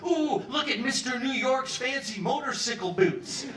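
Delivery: mocking female guard. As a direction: tease him like a jeering jailer.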